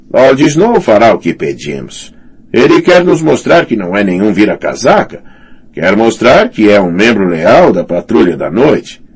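smooth sneering knight. Acted. Sor Alicer speaking.

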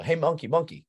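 put-on high, friendly call-out to a child; retold call, pitched well up to catch his attention; calling a kid over. Ref calls out to the kid.

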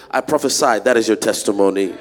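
shouting at the crowd; loud exhortation. Acted. Pastor urging the church to shout their amen.

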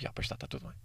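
whispered ironic reassurance; sceptical whisper. Retold or imitated. Doubting his own calming words, ironic whisper. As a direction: breathe it out, not believing it.

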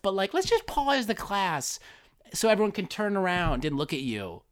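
high, fake-caring teacher that settles down; sweet on the surface, cruel underneath; teacher halting class to single out a kid; mock teacher. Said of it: "And they're like".

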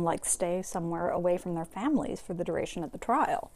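talking through a cracker; chewing between words; mouth full. Real, not acted. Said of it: "I'm eating crackers".

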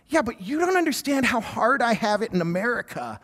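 lightly whiny retold protest; mock complaining. Brother protesting to his missionary sister, mock complaining. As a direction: complain as if hard done by, half-joking. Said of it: "complaining to her about what's going on".

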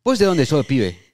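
put-on Argentine accent. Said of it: "tu acento argentino".

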